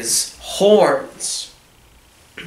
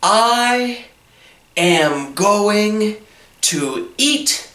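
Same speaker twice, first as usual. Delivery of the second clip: higher, put-on menacing troll; 5 semitones higher than usual. Teacher voicing the troll threatening the big goat, menacing. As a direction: growl out the threat like a storybook troll. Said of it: "The troll says".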